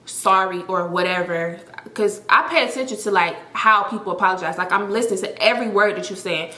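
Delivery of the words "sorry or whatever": monotone, unserious. Retold or imitated. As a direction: imitate a dull voicemail drone. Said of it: "literally talking just like this".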